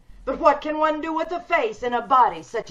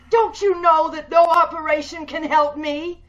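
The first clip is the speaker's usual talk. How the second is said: angry shout; 4 semitones higher, 6 dB louder than usual. Acted. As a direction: shout it out in bitter fury. Patient shouts at doctor.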